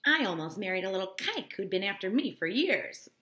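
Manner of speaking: loud, emphatic boast; vigorous declaration. A narrator's reading. Mrs McKee telling the room about her near-marriage, loudly. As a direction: announce it with gusto. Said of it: "she declared vigorously".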